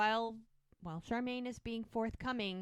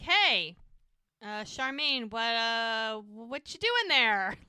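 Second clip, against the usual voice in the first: Jack; 2 semitones higher, 6 dB louder, slower than usual. Retold or imitated. Jack walks in on Charmaine bouncing on a ball, a little nervous. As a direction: stretch out the question with awkward hesitations. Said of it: "He looks a little nervous".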